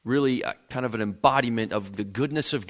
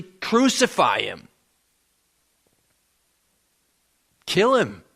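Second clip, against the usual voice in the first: mock crowd yell, slow and louder; crowd shouting; 2 semitones higher, 4 dB louder, slower than usual. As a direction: bark it like the bloodthirsty mob. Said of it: "they are shouting more and more in unison".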